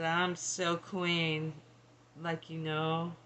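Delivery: put-on a weak, slow stab at a British accent. Medium voicing a regal British spirit, weak British accent. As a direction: slowly put on a bit of a posh British accent. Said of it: "I don't do British accents that well".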